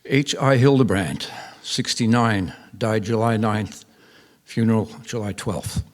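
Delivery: slow, item by item with falling ends; deadpan, slow obituary listing with full stops; terse obituary read. Retold or imitated. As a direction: read a bare notice, each fact closed off. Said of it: "that read".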